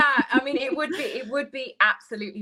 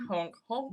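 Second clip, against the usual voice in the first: soft goose honk; 9 dB quieter than usual. Pretend. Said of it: "that's my, yeah, honk".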